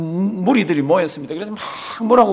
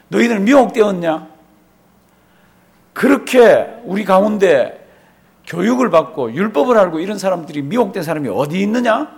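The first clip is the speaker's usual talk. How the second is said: rebuking; 3 semitones higher, 3 dB louder than usual. Retold or imitated. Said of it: "그랬더니 막 질책을 합니다".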